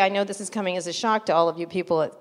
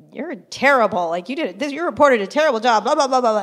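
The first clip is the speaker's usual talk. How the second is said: retold annoyed rant; 4 semitones higher, 5 dB louder than usual. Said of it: "really annoyed".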